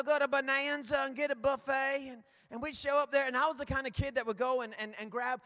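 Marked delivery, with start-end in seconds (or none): 0.0-2.1 put-on Kentucky twang; Kentucky accent. Shown as a demonstration. Preacher recalls childhood buffet trips, mock Kentucky accent. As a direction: lightly imitate a Kentucky accent. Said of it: "I did it in Kentucky".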